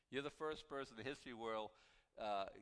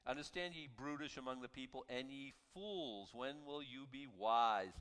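scripture reading. Acted. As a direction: stretch out the rebuke word by word. Reads psalm aloud.

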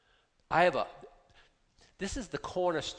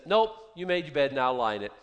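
cold dismissive God; 5 dB louder than usual. Retold or imitated. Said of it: "and he said".

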